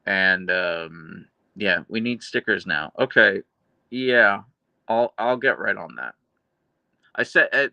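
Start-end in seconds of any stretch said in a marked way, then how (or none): 3.9-6.2 dry, deadpan promise that sounds sarcastic; accidentally sarcastic. Real, not acted. Streamer answering a chat request for stickers, dry and deadpan. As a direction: say it flat so it lands as sarcasm. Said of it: "that came out sounding sarcastic".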